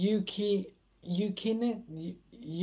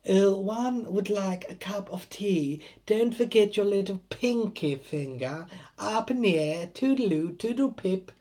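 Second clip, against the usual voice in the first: mock posh British. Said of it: "talks so posh in Britain".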